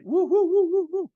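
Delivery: high, loud whooping woos; excited whoops. Real, not acted. Hyping up the audience about the coffee, excited high whoops. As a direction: whoop it up to hype the room.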